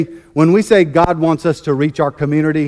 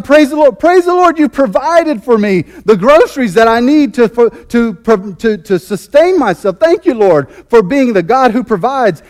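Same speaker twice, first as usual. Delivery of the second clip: much higher, louder thanksgiving; overjoyed praise; 5 semitones higher, 4 dB louder than usual. Retold or imitated. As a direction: burst out in joyful thanks. Lady finds groceries, rejoices.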